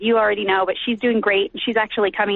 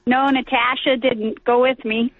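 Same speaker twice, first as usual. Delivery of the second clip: put-on Canadian accent. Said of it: "That was my Canadian accent".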